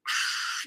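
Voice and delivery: long hissing mask breath; breathy gas mask exhale. Retold or imitated. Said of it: "he's like".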